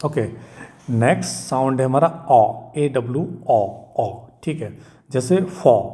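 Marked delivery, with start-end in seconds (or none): 5.4-5.8 फॉर with an open "aw" vowel; open, rounded vowel in फॉर; pronunciation model. Shown as a demonstration. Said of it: "English बोलोगे तो इसको".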